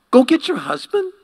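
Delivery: high, loud command. Acted. Jesus tells the woman to fetch her husband, loud and high. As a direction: send her off firmly.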